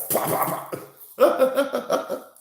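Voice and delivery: loud popped gavel knocks; imitated gavel bangs. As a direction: bang a gavel with your mouth.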